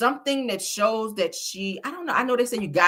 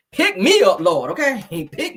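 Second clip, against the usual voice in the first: dramatic shout; 6 dB louder than usual. Pretend. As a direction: shout it like you're fainting. Demands to be lifted.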